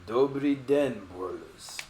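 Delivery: slow greeting in a shaky attempt at Russian accent; bad Russian accent. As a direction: put on a terrible Russian accent. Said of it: "I have a terrible Russian accent".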